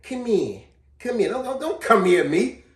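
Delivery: mimicking girls. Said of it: "girls used to do that".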